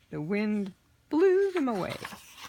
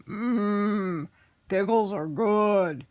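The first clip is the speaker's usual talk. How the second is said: lightly voiced greedy goblin; 3 semitones higher, 4 dB louder, much slower than usual. Fat goblin eats pickle.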